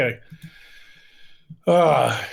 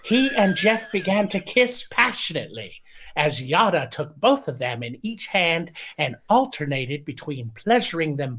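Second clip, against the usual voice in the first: mock passion read in a lightly put-on voice; Poe voice. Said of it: "Read in the voice of Poe".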